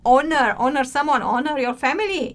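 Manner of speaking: each "honor" starts straight on the vowel; silent H. Shown as a demonstration. Teacher reminds learners how to say it, "honor" with silent H. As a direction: say "honor" as "onner", no H sound. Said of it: "you don't pronounce the H".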